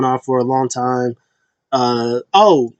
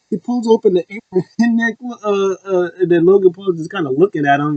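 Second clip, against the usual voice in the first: amused, higher voice breaking into laughs; laughing while talking; 6 semitones higher than usual. Real, not acted. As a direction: tell it through real laughter. Laughs while retelling a funny moment.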